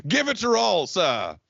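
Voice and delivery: hammed-up British quote, starting high; playful fake British delivery; mock British accent. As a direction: put on a British accent, high then dropping. Mock British quote after Scottish slip.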